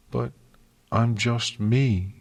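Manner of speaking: slow, mild moan; a small, helpless moan. Acted. Twilight doubting herself to the princesses, moaning. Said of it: "Twilight moaned".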